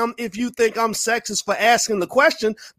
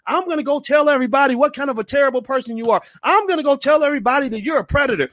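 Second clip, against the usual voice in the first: mocking Omarosa; 6 semitones higher, faster than usual. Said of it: "suddenly she's like".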